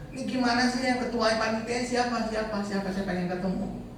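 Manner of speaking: high-pitched put-on voice of complaint; imitated demanding driver. Driver demanding the committee head, imitated high-pitched complaint.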